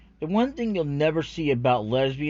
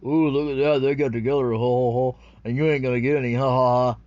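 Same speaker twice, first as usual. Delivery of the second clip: mocking taunt; 6 dB louder than usual.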